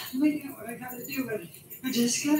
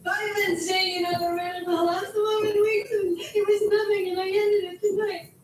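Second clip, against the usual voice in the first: rushed confession, raised and pressing; talking too fast; 4 semitones higher, 4 dB louder than usual. Acted. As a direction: blurt it out in a loud, higher-pitched rush. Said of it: "If you talk that fast".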